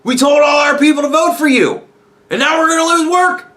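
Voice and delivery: hammed-up high wail of betrayed union guys; whiny auto workers. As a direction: plead like betrayed workers in a panic. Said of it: "the auto workers are like".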